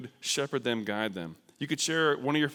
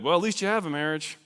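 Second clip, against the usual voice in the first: minimizing; 5 semitones higher, 4 dB louder than usual. Acted. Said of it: "don't minimize it".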